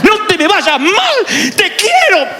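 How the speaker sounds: half scold, half hug; a son imitating his mother scolding and hugging him; mother's tender scolding. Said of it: "la de mi mamá".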